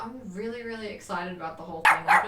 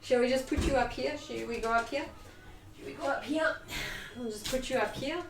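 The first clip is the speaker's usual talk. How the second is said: cooing to dog; 5 dB quieter than usual. Real, not acted.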